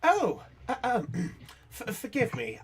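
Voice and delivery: high, gushing affectionate voice; doting girl, gushing. Acted. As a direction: coo over him, pitched high. Girl flustered.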